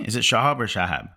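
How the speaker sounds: Shahab said first as SHAH-hahb, then again as SHAA-haa; two pronunciations. Shown as a demonstration. Host checking how to say the actor's name, two pronunciations. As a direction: try Shahab two different ways, as a question.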